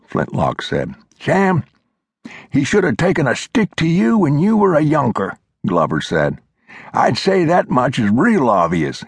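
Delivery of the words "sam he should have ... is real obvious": put-on high, reedy old-timer lecturing; old mountain man voice. A narrator's reading. Old Glover scolding Flintlock, high old-timer voice. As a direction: play the cranky old coot setting him straight.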